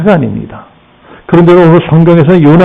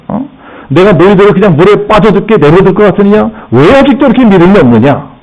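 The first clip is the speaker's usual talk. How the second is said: mildly acted telling-off, pitch slightly raised; scolding; 3 semitones higher than usual. Jesus to frightened disciples after calming the storm, mild scolding. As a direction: chide them with insistent questions. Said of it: "제자들을 야단치십니다".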